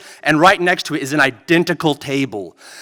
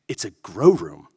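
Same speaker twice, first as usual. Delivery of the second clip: brother-in-law voice; 11 semitones lower, 7 dB quieter than usual. Retold or imitated.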